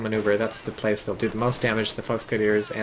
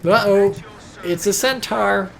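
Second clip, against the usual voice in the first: growing alarm; 9 semitones higher, 5 dB louder, slower than usual. Real, not acted. Enemy centaur appears.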